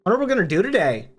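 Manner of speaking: quick, high, eager question; hyped up. A narrator's reading. Seb kicks a tree, hyped up on energy drinks. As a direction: buzz with energy-drink excitement. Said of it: "hyped up on energy drinks".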